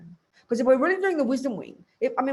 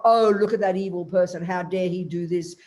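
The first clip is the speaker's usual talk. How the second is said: mock indignation; 4 semitones lower, 4 dB louder than usual. Reader scolding a politician in the news, mock outrage. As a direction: scoff at the evil person like we usually do. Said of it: "This is how we talk".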